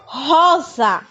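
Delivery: Rosa said with the strong R, "hɔza". Shown as a demonstration. Teacher modelling the strong R in Rosa. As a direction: breathe the R of Rosa from the throat. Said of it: "o R tem um som forte".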